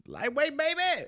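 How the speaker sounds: very high hammed-up bodybuilder cry; Ronnie Coleman impression. Imitating Ronnie Coleman running around the gym, high hammed-up cry. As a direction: belt it like a strongman lifting. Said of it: "run around like fucking".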